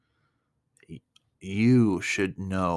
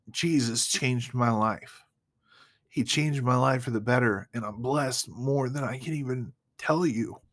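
emotional; 5 semitones higher than usual. Real, not acted. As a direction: voice lifted, moved and close to tears. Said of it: "I get emotional".

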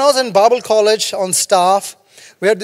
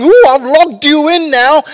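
pushy beggar; 4 semitones higher than usual. Acted. Beggar at the gate begs Peter and John, pushy and higher. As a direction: wheedle the passing rich man for cash. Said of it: "and he's saying".

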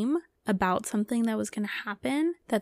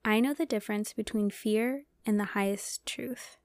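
whispered affirmation. Acted. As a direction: whisper it like a calm mantra. Affirmation of the week.

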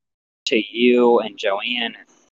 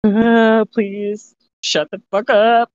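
irritated snap; 10 semitones higher, 5 dB louder, slower than usual. Retold or imitated. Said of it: "and I'm like".

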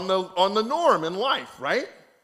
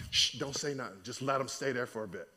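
low, soft conspiratorial shushing; hushing; 8 semitones lower, 10 dB quieter than usual. Pretend. Preacher coaching Joseph to let them squirm, hushing. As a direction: keep it down, as a private tip.

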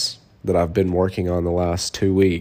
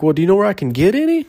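imitating the stranger; 10 semitones higher, 4 dB louder, much faster than usual. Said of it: "He was like".

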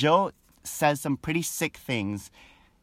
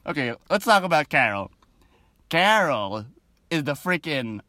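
ordinary delivery

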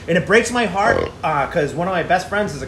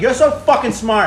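sarcastic; 4 semitones higher than usual. Retold or imitated. Kid mocks the cop searching the car, slow sarcasm. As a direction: drag out the sarcasm, higher. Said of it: "But I'm like".

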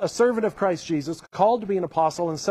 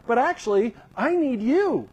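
earnest Paul; 5 semitones higher than usual. Acted. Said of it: "he's really clear".

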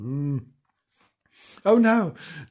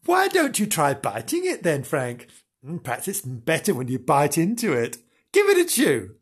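teasing voice. Acted. Bernard voiced teasing Frank.

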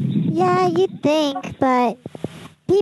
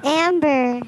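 muffled. Real, not acted. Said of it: "'cause that you muffled when you said it".

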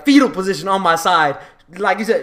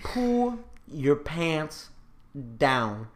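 stern dad order; 6 semitones lower, 11 dB quieter, much slower than usual. Retold or imitated. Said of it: "He said".

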